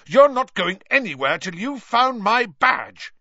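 high, loud furious yell. A narrator's reading. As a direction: yell a demand. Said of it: "yelled Percy".

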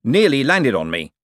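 high, agitated shout. A narrator's reading. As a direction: call out indignantly. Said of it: "shouted the man in the dressing gown".

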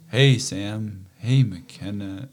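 put-on drawn-out, stilted hello to the kids; weird slow greeting. A father recording a video for his kids, stilted and slow. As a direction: greet them slowly and awkwardly, as if on camera. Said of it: "it sounded so weird".

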